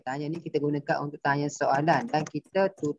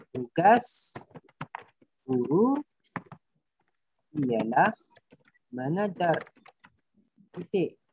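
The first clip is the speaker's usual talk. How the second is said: word by word dictation; 2 semitones higher than usual. Shown as a demonstration. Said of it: "tu memberitahu".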